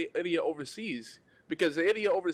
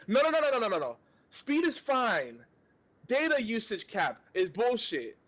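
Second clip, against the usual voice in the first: exasperated retelling; 6 semitones higher than usual. Retold or imitated. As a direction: lose patience with the agent, spelling it out. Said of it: "I'm gonna get more angry".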